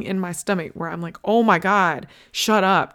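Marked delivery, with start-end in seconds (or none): 1.2-2.9 retold fed-up outburst, a bit louder; exasperated anger. Mom retelling her reaction to whining toddler, mildly exasperated. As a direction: let a touch of rising anger push the words out. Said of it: "guilt and anger just, like, rising".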